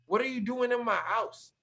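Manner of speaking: high-pitched retold questioning; incredulous demand. Homeowner questioning an unknown guest, imitated incredulity.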